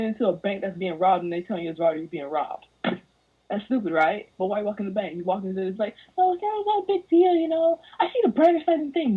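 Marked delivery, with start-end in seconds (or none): 6.2-9.2 high, fast airy mock voice; high, fast mocking imitation of a carefree girl; mock naive optimist. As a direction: chirp it like a clueless optimist. Mocking naive girlfriend quote.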